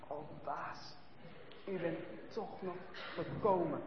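put-on a tiny weak child's voice, almost gone; weak little voice. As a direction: barely get the words out, half frozen. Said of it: "Een heel zwak stemmetje".

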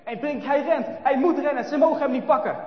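loud, high and urgent; breathless chase narration. A narrator's reading. Narrator racing through the chase, excited. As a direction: tell it like you're running too.

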